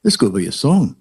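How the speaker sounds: mock Australian accent. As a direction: do a broad Australian comic. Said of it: "that was a good Australian accent".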